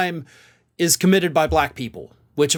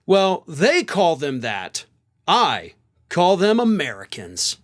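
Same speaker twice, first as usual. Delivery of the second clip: slow Southern drawl; mock a Southern senator's slow drawl; Southern senator accent; 2 semitones lower, slower than usual. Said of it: "I'm using that accent".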